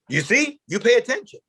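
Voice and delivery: high, emphatic quoted praise; emphatic mentor. Retold or imitated. Older mentor telling his young friend, emphatic. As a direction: pitch it up as a point proven.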